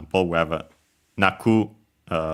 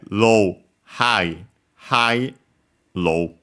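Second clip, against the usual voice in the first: pitch pattern read out; much slower than usual. Shown as a demonstration. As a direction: act out each tone as you name it. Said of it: "For gambare".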